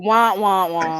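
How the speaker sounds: mock sad trombone noise; sad trombone wah-wah. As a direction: sing a deflating wah wah wah. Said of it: "where's the button".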